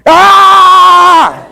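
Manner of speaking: high shouted cry of rage, hammed-up; a burst of fake fury; mock angry yell. Preacher acting out yelling back at an insult, hammed-up yell. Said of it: "tú qué tienes la tendencia a hacer".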